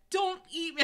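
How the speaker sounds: high, loud pleading; wrongly said plea. A narrator's reading. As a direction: blurt it out high and loud, begging. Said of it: "I said it in such a way".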